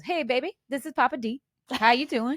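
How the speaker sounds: folksy New Orleans greeting; New Orleans stepdad. Retold or imitated. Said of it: "that's how he talks".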